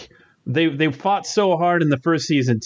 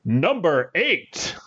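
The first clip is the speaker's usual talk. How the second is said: slow, stretched announcer call; much slower than usual. Shown as a demonstration. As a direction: announce it like a countdown host. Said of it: "Great announcer voice there".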